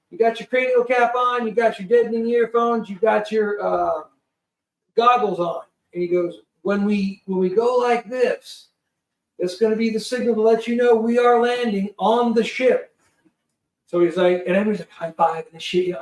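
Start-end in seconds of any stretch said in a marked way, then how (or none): 0.1-5.6 lightly acted crew checklist; imitated pre-flight briefing. Crew briefing passengers, quoted. 6.6-12.9 lightly acted crewman's instructions, pitched up; imitated safety briefing; crew briefing. Crew man explains landing signal.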